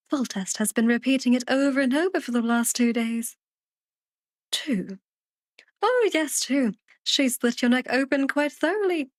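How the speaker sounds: chatty bedside report in a lightly acted voice; a hint of character, lively storytelling lilt; lightly voiced talkative character. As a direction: lightly play a talkative self-styled old fool.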